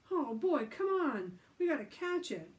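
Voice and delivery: high, loud eager call; rally them to chase; excited. Acted. Billy excited.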